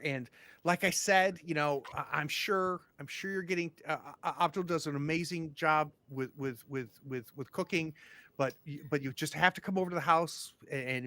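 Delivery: fluster and gush over the visitors; nervous welcoming mayor, overeager; eager small-town mayor. Acted. Mayor continues gushing.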